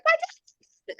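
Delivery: very high, frantic retold cry; desperate cry. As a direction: cry it out on the run. Retold cry while running past security.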